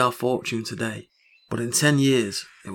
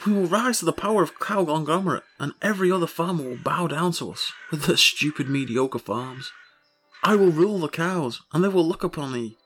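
wild unhinged ranting; 3 semitones higher than usual. Acted. Grandiose cow empire rant.

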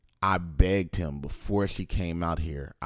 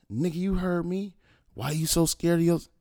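high-pitched retold challenge; insistent demand; 12 semitones higher than usual. Son calls back and challenges silent father, retold insistence. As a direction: press him for an answer, voice pitched up.

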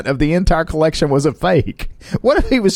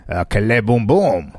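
mock French gibberish; 3 semitones lower than usual. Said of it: "That was a direct quote".

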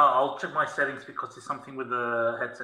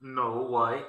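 in a cave; 4 semitones lower, 3 dB quieter than usual. Real, not acted. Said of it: "you sound like you're in a cave".

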